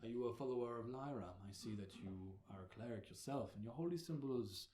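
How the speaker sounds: lightly voiced older cleric, measured and courteous; deep-voiced head cleric. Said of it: "with a deep voice".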